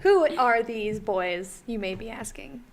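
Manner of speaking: flat robotic monotone. Real, not acted. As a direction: talk like a robot. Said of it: "Why are you talking like a robot?".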